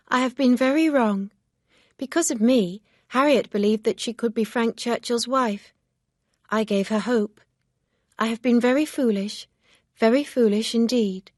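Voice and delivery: lightly voiced self-reproach; Emma, regretful. A narrator's reading. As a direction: Emma scolding herself, understated. Emma blames herself.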